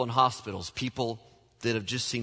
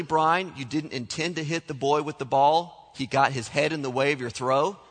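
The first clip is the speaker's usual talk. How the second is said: mild mock-sarcastic mother, questioning rise; imitating mom's doubting "Really, Brian"; lightly voiced sarcastic mother; 3 semitones higher than usual. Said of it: "It was that kind of sarcasm".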